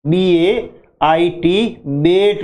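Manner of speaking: बेट with a drawn-out vowel; बेट pulled long. Shown as a demonstration. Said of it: "लंबा खींच के बोलेंगे".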